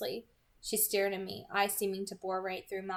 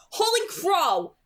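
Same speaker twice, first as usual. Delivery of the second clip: higher, loud, stretched-out shout; 11 semitones higher, 9 dB louder, slower than usual. Acted. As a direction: blurt it out in shock. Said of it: "I shouted".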